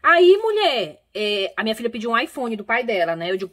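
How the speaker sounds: ordinary delivery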